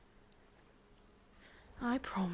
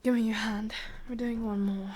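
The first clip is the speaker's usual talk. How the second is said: commanding; 5 dB louder than usual. Acted. Captor orders captive.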